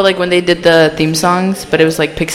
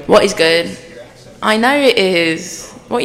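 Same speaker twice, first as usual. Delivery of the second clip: stretched, playful put-on British accent; mock British lilt. Shown as a demonstration. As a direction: show off a practised British accent. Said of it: "working on this accent".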